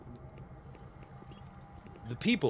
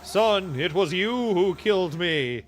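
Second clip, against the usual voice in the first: raised, slow pronouncement; mock ghostly father; 4 semitones higher, slower than usual. Quoting the cartoon ghost to a friend, slow and raised.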